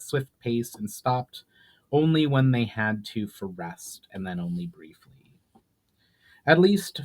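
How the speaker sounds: measured storyteller reading a fantasy chapter; dramatic fantasy audiobook reading; story narration. A narrator's reading. Reads chapter aloud.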